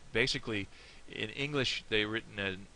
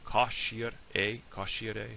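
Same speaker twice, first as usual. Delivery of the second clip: Irish word with southern vowels; southern Irish dialect; much slower than usual. Shown as a demonstration. Teacher reminding learners of the first word, southern Irish dialect. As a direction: say "caixire" the southern Irish way, opening on "cah". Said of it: "The southern one is, remember it's ca".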